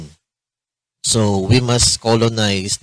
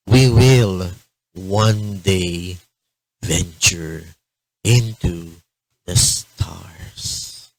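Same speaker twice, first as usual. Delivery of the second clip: dramatic quote reading; slower than usual. Retold or imitated. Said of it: "quotation mentioned by Carl Sagan".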